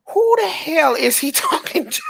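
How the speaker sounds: high-pitched incredulous question through laughter; laughing disbelief. Retold or imitated. Viewer baffled by Vision talking to the camera, laughing incredulously. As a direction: crack up midway through the question.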